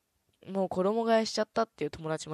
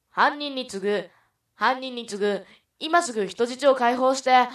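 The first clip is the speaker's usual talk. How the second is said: loud, high police call to a hostage-taker; rookie detective; 6 semitones higher, 9 dB louder than usual. Acted. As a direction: call out an order across a standoff. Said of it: "新米刑事の有田刑事が、". (立てこもり犯に高い大声で呼びかける刑事)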